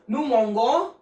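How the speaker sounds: mangeons said "mon-go", hard g; nous mangeons mispronounced with a hard g; wrong hard g. Shown as a demonstration. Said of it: "there's a slight problem over here".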